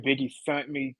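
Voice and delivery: mimicked slip on "sent", sounding like "sunt"; imitating mispronunciation. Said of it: "I realized she meant sent".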